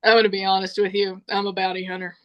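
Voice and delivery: imitated dropped act, level and quick; sudden voice change. Caller confessing she's a bounty hunter, suddenly matter-of-fact. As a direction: drop the distraught voice, get businesslike. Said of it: "change in voice".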